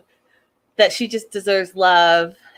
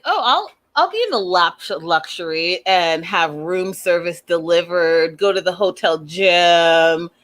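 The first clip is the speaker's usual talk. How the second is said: mock carefree. Mockingly voices him planning luxury.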